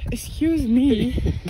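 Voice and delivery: slow mock indignant; drawn-out excuse me; offended. Real, not acted.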